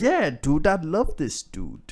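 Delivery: lightly voiced gushing teen fan; slow down on a touch of fanboy awe; a hint of a starstruck kid; thirteen-year-old self. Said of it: "Is that thirteen-year-old Dan? That's how we talk?".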